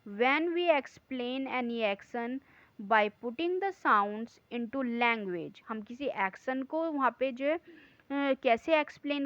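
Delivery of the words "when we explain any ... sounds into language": slow, deliberate read-aloud of the note; slow dictation reading. Acted. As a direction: read each word out slowly for the class. Reads the textbook note aloud. (धीमी, ठहर-ठहर कर पढ़ाई)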